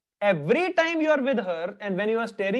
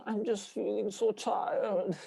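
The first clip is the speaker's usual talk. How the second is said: bimbo girl imitation; 7 dB quieter than usual. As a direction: draw the words out like a mock bimbo. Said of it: "They just talk like this".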